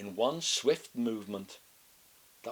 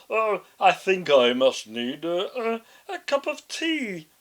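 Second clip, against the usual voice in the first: wolf faking a high, loud granny voice, hesitant; disguised voice; 8 semitones higher, 11 dB louder than usual. A narrator's reading. Wolf pretending to be grandma, clumsy disguised voice. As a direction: clear throat and fake an old lady badly.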